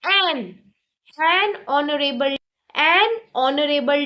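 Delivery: slow, "an" leading into "honorable"; slow model. Shown as a demonstration. Teacher slowly modelling "an honorable" twice. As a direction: spell the sound out slowly. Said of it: "हम ऑनरेबल से पहले क्या लिखेंगे?".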